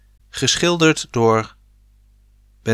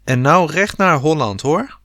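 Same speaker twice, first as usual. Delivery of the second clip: shouting after them; 5 semitones higher than usual. Acted. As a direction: send them off with a call. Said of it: "schreeuwde hij ze na".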